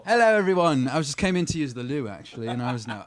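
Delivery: a light put-on English accent; mock English gentleman greeting. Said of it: "should I talk with an English accent?".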